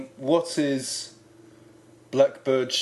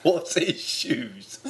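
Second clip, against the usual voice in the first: laughing; 3 semitones higher, much slower than usual. Real, not acted.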